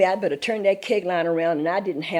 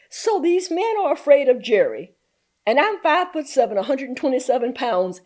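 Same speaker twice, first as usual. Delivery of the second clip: high, loud disbelief; raised voice, mock astonishment; incredulous retelling; 5 semitones higher, 3 dB louder than usual. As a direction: act out amazed protest. Acts out her disbelief at men.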